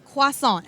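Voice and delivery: Croissant echoed as kwa-SAHN, no R; Croissant copied from the baker, French-style; repeating the French way. Retold or imitated. Host repeating the baker's French Croissant. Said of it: "How do you say this properly?".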